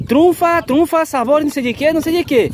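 high sing-song hawker's cry; street vendor call. Shown as a demonstration. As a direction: call out the treats like a market seller. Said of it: "Você fala assim".

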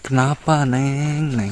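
a loud call across the dark. Real, not acted. Calling out to the crying ghost.

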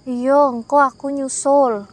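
slow, toneless, a hint of something wrong; flat eerie reply. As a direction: drag it out with no feeling. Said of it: "kayak udah flat aja gitu".

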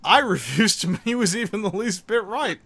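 loud, high defiant declaration. Real, not acted. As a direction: proclaim it, laughing defiantly.

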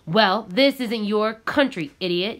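yelling in his face. Acted. Contractor yells in Gabriel's face, read-aloud yell. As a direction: bark it down at him. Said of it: "yelled in his face".

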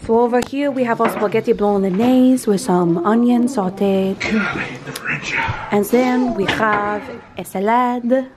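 muddled put-on foreign accent, vaguely Asian; vaguely Asian-sounding accent. Host presenting dinner, put-on vaguely Asian accent. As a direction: present dishes in a loose mock Asian accent. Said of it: "You sound a little or-, Asian".

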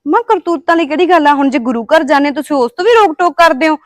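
defiant retort. Acted. Daughter argues back at mother.

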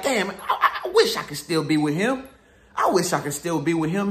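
low, moping mock lament of a woman who regrets leaving; mock regretful ex. Mocking ex's regretful voice.

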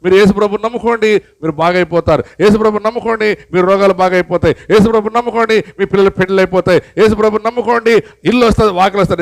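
a hint of a slick preacher promising everything; mocking prosperity preacher. Preacher mocks false preachers promising blessings, lightly parodied. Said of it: "ఈ రోజుల్లో సువార్తలు ప్రకటిస్తారు".

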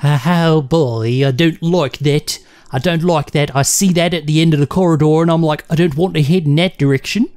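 lively put-on American accent. Player balks at the corridor's end, put-on American accent. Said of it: "using that American accent".

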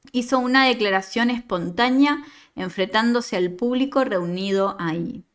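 steady storytelling read; story narration. Acted. Teacher reading a student's story to the class, narrating. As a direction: read the tale out to the class, evenly.

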